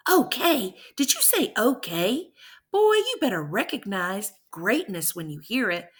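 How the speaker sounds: a father playfully offended by his son; indignant disbelief. Retold or imitated. Dad indignant at son's shrug.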